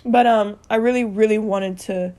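tearful and soft, voice catching; speaking through real tears, quiet and halting; crying. Real, not acted. Telling viewers about losing her nephews, crying softly. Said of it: "I'm just really crying".

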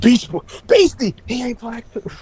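a lightly voiced Teen Titans Cyborg; half robot voice. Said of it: "cyborg voice".

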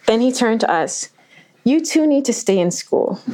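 put-on the masked man, half-laughing, pleading with the kids; lightly voiced robber. Masked robber urges the children to stay in school, lightly voiced and earnest.

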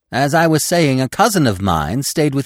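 high, loud, eager chatter; perky squirrel voice. A narrator's reading. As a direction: prattle on obliviously at a high pitch. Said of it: "the squirrel began to chatter again".

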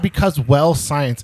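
mocking quote. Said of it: "He literally said".

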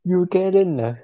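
sing-song Chinese accent on Karen ah. Shown as a demonstration. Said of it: "say it in a Chinese accent".

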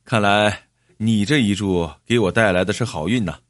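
mildly gleeful; delighted. Acted. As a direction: share good luck happily with a pat on the shoulder. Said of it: "张义超一听就乐了".

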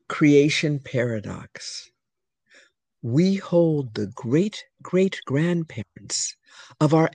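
slow, measured poem reading; poem recitation. Acted. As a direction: read it like a solemn creation myth. Reads her poem aloud.

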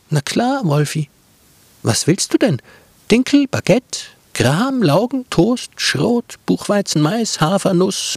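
Brotkäppchen offering the wolf every bread, high and eager; cheerful girl. Acted. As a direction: rattle off the breads like a sweet helpful girl.

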